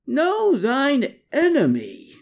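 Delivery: drawn-out high screech, Know stretched long; slow screech. A narrator's reading. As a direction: Klaus shrieks it again, slowly. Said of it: "Klaus screeched".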